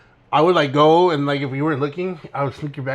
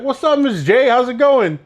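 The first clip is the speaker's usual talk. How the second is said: high, chirpy hello; mock cheery greeting; 9 semitones higher, 3 dB louder than usual. Menace student walking into the teacher's class, breezily cheerful. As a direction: greet her as if nothing could be wrong.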